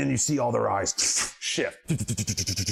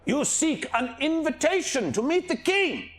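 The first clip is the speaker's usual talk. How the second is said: shrill bird voice. Acted. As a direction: screech it like a bird.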